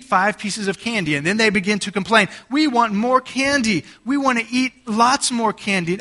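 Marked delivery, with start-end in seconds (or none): 2.5-6.0 higher, mock childish whine; whining kids. Kids complaining to parent after Halloween, mock whine. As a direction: imitate greedy kids begging for candy. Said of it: "they whine and they bellow and they bellyache".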